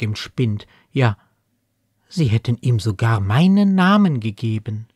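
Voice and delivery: lively, lightly performed poem reading with lifted pitch peaks; poem recital. Acted. Speaker reciting a child's what-if poem before discussing it, lively recital. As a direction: recite it as a child's wondering questions, lightly acted.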